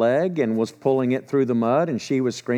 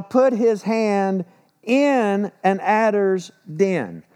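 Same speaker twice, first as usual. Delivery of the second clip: slow, deliberate reading of the verse; solemn scripture reading; 5 semitones higher, slower than usual. Real, not acted. Preacher to congregation, slow solemn scripture reading. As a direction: lay each phrase out slowly for the listeners.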